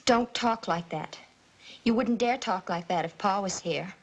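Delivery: low, threatening warning; a low threat at the aunt. Acted. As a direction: warn her off, low and hard. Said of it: "that threatening tone".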